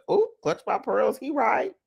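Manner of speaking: mock shock. Real, not acted. Mock shock at Derek's point.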